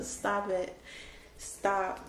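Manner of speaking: soft, overcome "stop"; quietly pulling it together; collecting oneself. Real, not acted. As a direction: hush yourself, trying to hold back tears. Telling herself to stop crying.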